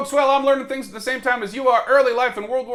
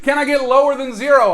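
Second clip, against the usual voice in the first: louder auctioneer call for bids; 6 dB louder than usual. Pretend. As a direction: call for a bid, auction style. Mock auction bid.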